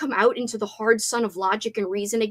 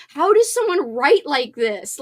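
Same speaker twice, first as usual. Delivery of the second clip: awed, slower; 4 semitones higher, 5 dB louder, slower than usual. Retold or imitated. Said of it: "I just think, like".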